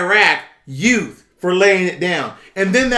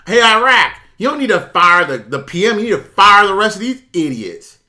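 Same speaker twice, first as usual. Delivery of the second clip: louder, scolding Iraq's leaders; mock angry tweet; 3 semitones higher, 5 dB louder than usual. Viewer telling Iraq off, in a loud scolding voice. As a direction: bark it at Iraq like a fed-up citizen. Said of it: "you should be tweeting that".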